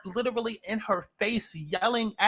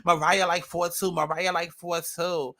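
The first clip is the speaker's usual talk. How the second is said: mocking what people say; slower than usual. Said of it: "everybody keeps talking about".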